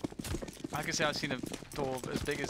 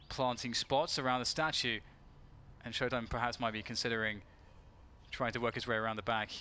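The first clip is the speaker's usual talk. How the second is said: lively esports caster call; play-by-play commentary; 3 semitones higher than usual. Acted.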